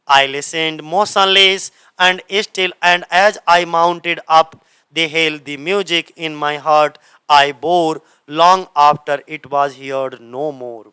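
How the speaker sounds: measured, drawn-out recital of the verse; slow poem reading. Shown as a demonstration. Teacher to exam students, reading the poem lines slowly. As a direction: let each line hang slowly like a recital.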